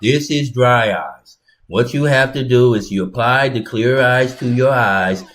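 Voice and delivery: deadpan infomercial voice, lightly done; dry eyes commercial guy. Retold or imitated. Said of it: "he talks like this right here".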